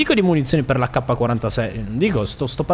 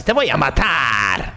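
slow hammed-up Spanish-accented threat; mock Spanish threat; much slower than usual. Mocking enemies whose greeting is a Spanish threat, hammed-up Spanish accent. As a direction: drawl it out like a cartoon Spanish villain. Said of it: "oppure lo dici così".

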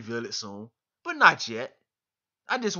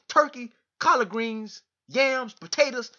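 higher, louder, slow, savouring each dish; excited menu list; 9 semitones higher, 4 dB louder, slower than usual. Real, not acted. Inviting the WBC president to Thanksgiving dinner, excited and slow. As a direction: rattle off the dishes like a feast is waiting.

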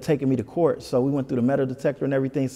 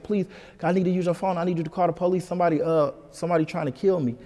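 higher-pitched, mildly panicked begging; retold urgent plea; 5 semitones higher, faster than usual. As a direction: re-enact pleading for help without raising the volume.

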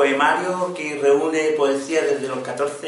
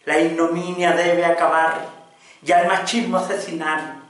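impassioned poem recital; 2 semitones higher than usual. Acted. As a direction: declaim in rising waves, dropping at line endings.

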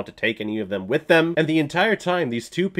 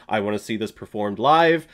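ordinary delivery

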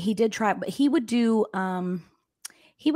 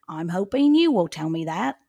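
louder quote in a loosely faked Scottish accent; not-quite-Scottish accent; 6 dB louder than usual. Host quoting the killer to officers, in a failed Scottish accent. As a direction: attempt a Scottish accent and miss. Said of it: "I know that wasn't Scottish".

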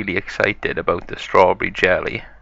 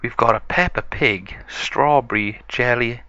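slightly higher playful mum voice; Mommy Pig voice; 3 semitones higher than usual. Acted. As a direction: tease the surprise as the mother pig. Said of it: "So Mommy Pig said".

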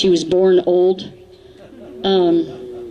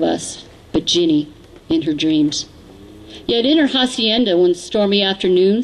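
cowboy poetry. Acted. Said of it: "it's remained a cowboy poem".

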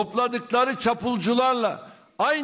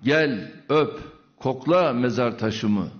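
emotional poem recital; 10 semitones lower, slower than usual. Real, not acted. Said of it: "şiiri de kürsüden okudu, duygulandı".

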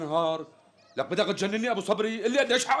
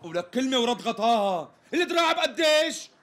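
louder, higher, impatient; sharp demand; 4 semitones higher, 3 dB louder than usual. Acted. Customer demands the price one last time, sharp and impatient. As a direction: snap the question out.

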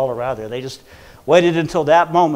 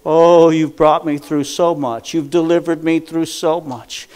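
praising prayer; 6 dB louder than usual. Shown as a demonstration. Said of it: "lift up your voice and begin to say".

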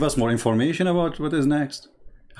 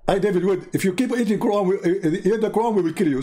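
mock threat; 5 semitones higher than usual. Mocking the jihadi's threat.

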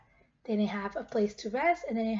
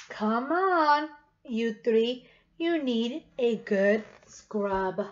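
a lightly voiced stern farm lady; slow, no-nonsense scrub order; tough Miss Wishy Washy; 2 semitones lower, much slower than usual. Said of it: "feels so tough".

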